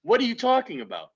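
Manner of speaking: sudden high-pitched outburst; heated shouting. Real, not acted. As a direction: blurt it out high and loud. Heated argument over basketball.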